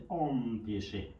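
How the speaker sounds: slow "آم پیشه" with an open AW in "آم"; AM read as آ. Shown as a demonstration. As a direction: stretch "آم" as a long open آ, then "پیشه". («آم پیشه» آهسته، با صدای آ در هجای اول)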